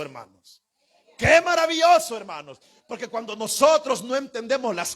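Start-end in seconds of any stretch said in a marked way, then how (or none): 1.2-2.1 Qué maravilloso shouted out high and loud; joyful shout. Real, not acted. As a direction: burst out in praise, full voice. Preacher exclaims to congregation.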